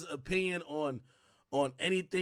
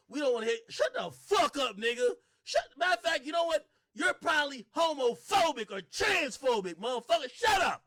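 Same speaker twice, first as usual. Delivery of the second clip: mock angry shout; 6 semitones higher than usual. Imitating people shouting down straights.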